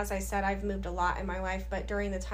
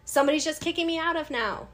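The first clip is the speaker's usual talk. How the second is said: spitting out the complaint; mad rant; 3 semitones higher, 3 dB louder, faster than usual. Retold or imitated. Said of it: "I was mad".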